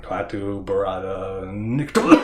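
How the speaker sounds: slow, loud, grand recital of every word; full incantation. Retold or imitated. Ash finally reciting the magic words, slow and loud. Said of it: "when he says the words".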